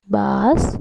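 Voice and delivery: BASKETBALL in three beats, bas - ket - ball; syllable by syllable. Shown as a demonstration. Teacher leading kids to count chin touches, syllable by syllable. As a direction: draw out BASKETBALL with a pause after each syllable. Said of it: "Shall we do it again?".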